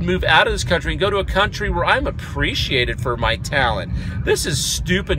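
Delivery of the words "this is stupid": shrugging it off, fed up; resigned grumble. Real, not acted. Resigned after the rant.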